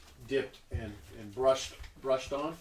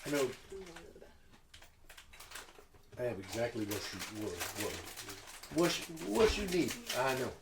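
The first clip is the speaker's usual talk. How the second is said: put-on Southern accent; 3 semitones lower, 4 dB quieter, faster than usual. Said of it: "stuck in this Southern thing".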